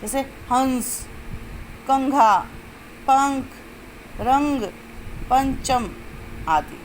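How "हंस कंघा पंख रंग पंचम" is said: हंस, कंघा, पंख, रंग, पंचम with the air sent through the nose at the dot; careful word list, humming the nasal in each of हंस, कंघा, पंख, रंग, पंचम; nasal anusvara. Shown as a demonstration. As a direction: sound out each word singly with a held nasal consonant. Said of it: "नाक से निकलती है".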